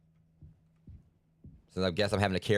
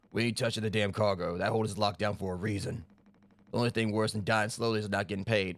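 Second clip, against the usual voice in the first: a lightly voiced tough mercenary refusing; gruff crew member. Streamer voicing the cargo guard, lightly gruff. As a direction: play a hint of a hardened hired gun. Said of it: "I'm gonna voice him the same".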